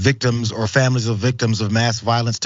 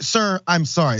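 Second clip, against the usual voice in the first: a fawning "Sir, I'm sorry" pitched high; mock the tearful apology lightly; a lightly voiced Trump retelling a sorry cop; imitating Trump; 7 semitones higher than usual. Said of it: "that's the way he said it".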